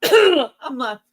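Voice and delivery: hoarse, voice giving out; scratchy losing voice. Real, not acted. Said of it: "losing my voice here".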